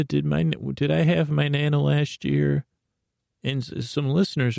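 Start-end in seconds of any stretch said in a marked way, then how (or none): 0.0-2.6 a hint of a wry goddess; lightly voiced old crone, amused; the Crone's voice, lightly done. Imagining the Crone answering him, lightly voiced and amused. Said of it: "And I can hear you saying".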